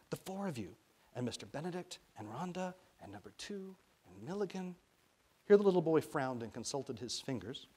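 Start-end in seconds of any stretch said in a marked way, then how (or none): 0.1-4.8 put-on high, soft child listing names; whispered counting. A narrator's reading. Boy counting names on his fingers, whispering. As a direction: whisper each name in turn, counting. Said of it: "counting off names in a whisper".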